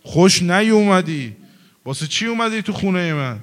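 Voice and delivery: hammed-up shouting at the imam to get out; retold shout. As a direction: bark it out at the unwelcome visitor. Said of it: "از دور داد زد".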